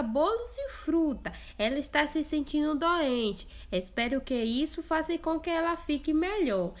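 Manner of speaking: put-on a mother sending her girl off; mother's voice.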